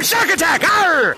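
mild game scream. Pretend. Shark player starting the round, mild mock scream. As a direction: call it out with a pirate arr. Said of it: "I'm just gonna have to scream".

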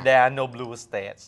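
slow, deliberate English in a Thai accent. Shown as a demonstration. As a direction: read English slowly with Thai pronunciation. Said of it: "อ่านภาษาอังกฤษสำเนียงไทยให้ฟัง". (ภาษาอังกฤษสำเนียงไทย อ่านช้าๆ)

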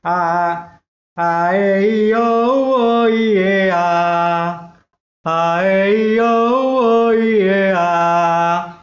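singing vowels around a pen held in the mouth; pen in teeth. Shown as a demonstration. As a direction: sing the vowel scale with a pen between the teeth, over-articulating. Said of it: "com a caneta na boca".

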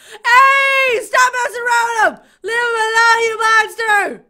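loud telling-off; scolding shout. Real, not acted. Player orders monster to leave him alone, scolding. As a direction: call out, stretching the first and last words.

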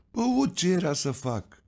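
what else could I do; lightly voiced old miner; high resigned shrug. A narrator's reading.

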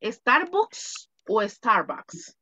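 "Starbucks" first with u as in Spanish, then with a as "Starbacks", slowly; teacher quizzing the class slowly on the vowel; two pronunciations. Shown as a demonstration. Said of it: "¿Cómo se pronuncia?".

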